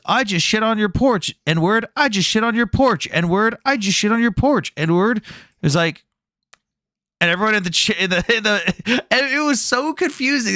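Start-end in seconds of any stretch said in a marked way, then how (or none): 0.1-5.2 higher, slow mock robot voice, lightly done; text-to-speech voice. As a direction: imitate a trolling text-to-speech bot, higher and slower. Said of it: "he starts playing text-to-speech and says".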